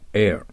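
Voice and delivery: エア with no H at the start; silent H. Shown as a demonstration. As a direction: say エア just like the word for air. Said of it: "Hを発音しません".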